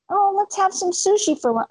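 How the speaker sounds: mock giddy shopper at the grocery store; excited shopper. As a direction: squeal like a thrilled shopper. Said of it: "Right there".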